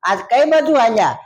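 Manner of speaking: chatty turtle. Acted. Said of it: "કોઈને બોલવાનો વારો જ ન આવવા દે".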